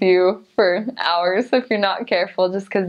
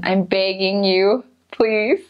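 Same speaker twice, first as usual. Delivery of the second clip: Wisconsin long A; slower than usual. Shown as a demonstration. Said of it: "pretend like you have a stuffy nose".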